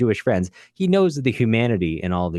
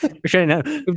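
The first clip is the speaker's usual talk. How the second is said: laughing mock announcement; 11 semitones higher than usual. Real, not acted.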